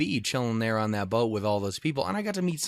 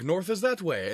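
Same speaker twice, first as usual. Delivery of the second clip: higher, sure-of-himself pointing voice; first guy insisting; 5 semitones higher than usual. Retold or imitated. One local pointing north to tourists, higher and certain. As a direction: insist it's this way. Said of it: "And he's like".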